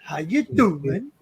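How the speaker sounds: slow, stretched "How you doing"; mock English teacher. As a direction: lightly parody the lesson, drawn out. Mimicking the English lesson.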